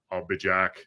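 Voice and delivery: lightly put-on Austrian accent; movie catchphrase in a mild Austrian accent. Host doing viewer's joke as told, Austrian accent. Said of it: "say it with an Austrian accent".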